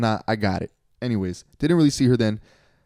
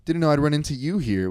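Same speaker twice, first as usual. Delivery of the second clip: mock theatrical surprise, higher pitched; playing it up; 5 semitones higher than usual. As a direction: imitate an ex play up a chance meeting like a movie. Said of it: "play up a situation like".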